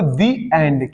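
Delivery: The said as "thee" in "The end"; "thee" before a vowel. Shown as a demonstration. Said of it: "तो इसको क्या पढ़ोगे?". ("The end" में The को "दी" बोलें)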